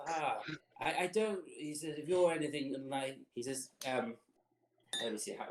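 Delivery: lightly voiced put-out bartender; put-out tiefling barkeep. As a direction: play the weary bartender with strained politeness.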